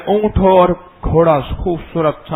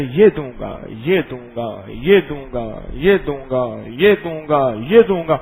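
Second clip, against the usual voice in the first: gentle promise; 4 semitones lower than usual. Acted. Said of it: "میرا اللہ کہتا ہے".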